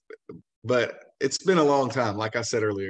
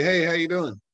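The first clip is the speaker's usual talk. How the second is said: friendly car salesman pitch; salesman role-play. Acted. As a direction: greet the customer as a salesman. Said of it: "I want you to fucking do it".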